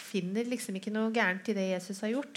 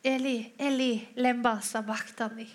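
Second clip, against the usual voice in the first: crying out; 3 semitones higher than usual. Acted. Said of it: "så roper Jesus".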